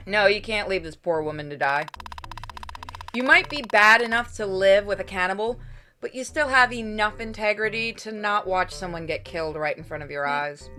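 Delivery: ordinary delivery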